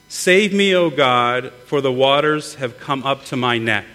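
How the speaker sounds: scripture reading. Acted. Reads scripture aloud.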